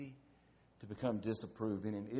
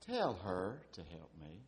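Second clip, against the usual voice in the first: sweet version; 3 semitones lower than usual. Shown as a demonstration. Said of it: "you could say".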